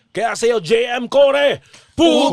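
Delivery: slow, loud build into a yell; unison shout. Acted. Hosts greeting a listener's husband in unison, shouting. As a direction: shout the greeting together, rising. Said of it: "pabati naman po in unison".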